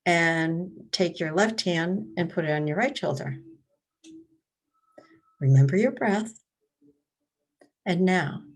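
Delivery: meditation leader with long pauses between prompts; guided meditation. Real, not acted. Leading library attendees through breath and body awareness, guided meditation. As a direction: guide listeners step by step, leaving room to breathe.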